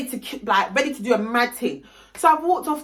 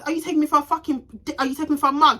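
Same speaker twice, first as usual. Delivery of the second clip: heated, higher-pitched confrontation; cussing her out; 5 semitones higher, much faster than usual. Retold or imitated. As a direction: retell an indignant telling-off. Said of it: "I'm pissed off and I'm cussing her out".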